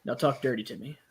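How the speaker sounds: lightly acted doctor keeping it businesslike; professional tone. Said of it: "saying it in a professional tone".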